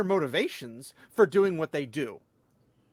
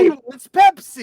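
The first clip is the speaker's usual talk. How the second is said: sarcastic; 7 semitones higher, 12 dB louder, slower than usual. Retold or imitated. Mocking friend's obvious hint.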